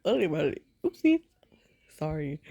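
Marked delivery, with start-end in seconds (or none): 0.8-1.2 startled oopsie. Real, not acted. Sudden slip mid-talk. 2.0-2.4 whispered sorry; whispering. Real, not acted. Quiet apology in ASMR video.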